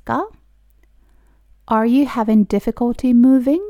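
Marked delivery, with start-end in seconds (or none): 1.7-3.6 slow, careful teacher pronunciation; slow model reading. Shown as a demonstration. Teacher reading slowly for students to repeat. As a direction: spell each word out slowly for learners. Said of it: "私と一緒に発音してもらったら".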